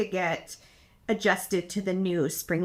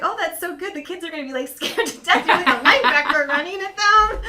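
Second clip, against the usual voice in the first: retold excited praise; 8 semitones higher, 8 dB louder than usual. Her own retold praise, excited.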